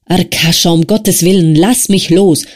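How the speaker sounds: a weak friend begging to be let go; pleading Wasja. Acted. Wasja begging Arkadi to release him, pleading.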